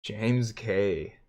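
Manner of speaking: ordinary talk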